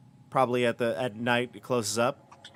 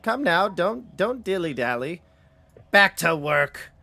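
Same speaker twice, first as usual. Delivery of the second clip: put-on higher-pitched granny ordering children back to work; scolding Granny; 7 semitones higher, 5 dB louder than usual. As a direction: start high, then slow and loud on the final order. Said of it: "as she scolds them".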